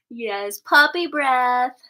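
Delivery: slow, drawn-out doting coo. Real, not acted. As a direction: savor the words while cuddling the pup. Cooing to the puppy.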